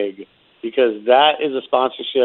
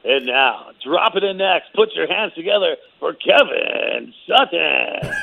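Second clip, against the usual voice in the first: fighting game announcer; 4 semitones higher, slower than usual. Pretend. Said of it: "I need you to say my name".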